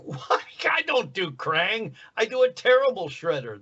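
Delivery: baffled, high-pitched mock indignation; incredulous protest. Voice actor recalling his protest at being kept as Krang, incredulous.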